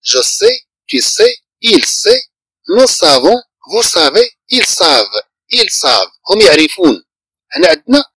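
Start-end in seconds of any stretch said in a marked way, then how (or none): 0.0-6.1 conjugation drill. Shown as a demonstration. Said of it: "نقول".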